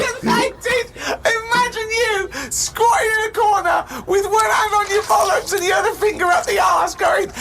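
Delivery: high, strained disbelieving yell; exasperated shout. Real, not acted. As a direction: shout it like it's the most ridiculous idea ever. Incredulous rant about self-surgery.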